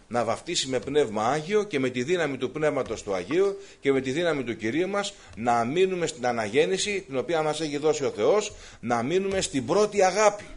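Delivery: loud preaching, rising to a peak; fervent preaching. Real, not acted. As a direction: press each phrase home to the congregation. Preaching at full force. (ένθερμο, δυνατό κήρυγμα)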